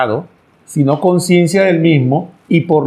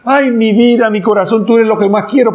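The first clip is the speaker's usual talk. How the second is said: coaxing son; 5 semitones higher than usual. Acted. Son flatters mother again.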